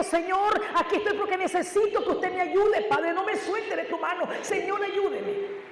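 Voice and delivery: drawn-out, begging Señor ayúdeme; earnest retold altar prayer; pleading prayer. Praying at the altar.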